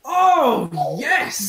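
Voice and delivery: long, rising-falling "oh", then a high yes; excited cheer. Real, not acted. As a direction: celebrate a great dice roll. Cheering a high dice roll.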